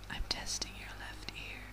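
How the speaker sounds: distant whisper at the left ear. Acted. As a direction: lean to the left ear and breathe it. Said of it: "let me try whispering here".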